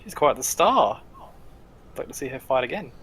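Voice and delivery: slightly oily backpedalling; smooth-talk with a touch of sleaze; sleazy. Acted. Arena dwarf praises the fighter's performance, sleazy. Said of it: "like, sleazy though".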